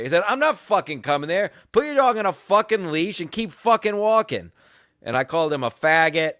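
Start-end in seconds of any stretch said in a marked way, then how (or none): 0.3-4.5 raised, forceful refusal; angry retort. Retold or imitated. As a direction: re-enact yelling an order back. Retold shouting match.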